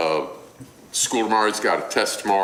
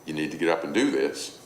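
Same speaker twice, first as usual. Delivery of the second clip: quick, easy pleasant mom request; mild, unforced motherly instruction; 3 semitones lower, faster than usual. Acted. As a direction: calmly tell a child what to do. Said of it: "Mom says in a pleasant voice".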